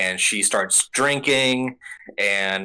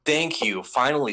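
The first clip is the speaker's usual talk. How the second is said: higher smug relieved voice; a spoiled noble pleased at last; mock Celestial Dragon; 5 semitones higher than usual. Mocking the noble greeting his former slaves, smug. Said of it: "He's like".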